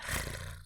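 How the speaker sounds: short wordless trilled rasp; quick, soft throat trill; rolled R noise. Shown as a demonstration. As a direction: demonstrate a rolled R sound. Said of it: "like, rolling your R's, like, going".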